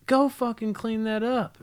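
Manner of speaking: high, slow exasperated parent order; retold exasperated order. Parent sending messy kid to wash, exasperated.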